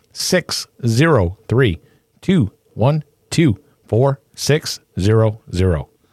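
slow, deliberate, carefully spaced-out number reading. Podcast host giving listeners the voicemail number, said slowly. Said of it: "I said it slow that time".

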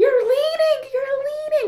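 very high, shrill, loud shouted yell. Retelling driving lessons, imitating uncle yelling from the side. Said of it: "I hear him yelling on the side".

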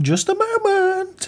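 put-on woman's voice, very high. After the players ring the doorbell, a voice answers from inside; put-on female voice. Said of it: "That was my female voice".

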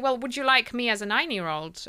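plain

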